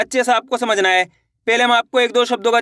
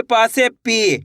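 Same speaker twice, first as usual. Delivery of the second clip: slow, deliberate, with पी drawn out; slow demo; much slower than usual. Shown as a demonstration. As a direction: model it slowly so kids can copy. Teacher demonstrating syllable change. (धीरे, पी को खींचकर)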